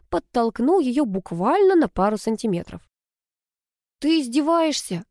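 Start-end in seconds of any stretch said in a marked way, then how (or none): 4.0-5.0 high wailing exasperation. A narrator's reading. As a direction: cry it out in a high wail. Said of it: "взвыла Алла". (взвыла, высоко)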